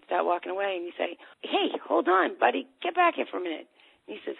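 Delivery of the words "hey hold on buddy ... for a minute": higher mock parent call; calling him back. Parent stops the kid walking away, raised call. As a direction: hold him back, a bit insistent.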